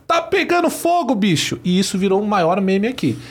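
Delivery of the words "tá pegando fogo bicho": imitated shout, pitched very high without much extra volume; high-pitched mock catchphrase cry; Faustão. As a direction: mimic a TV host's excited high yell. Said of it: "ele grita".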